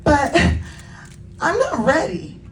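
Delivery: high, protesting youngster voice; Layla arguing. Acted. Little unicorn argues with guardian about school, high protest. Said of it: "Layla argued".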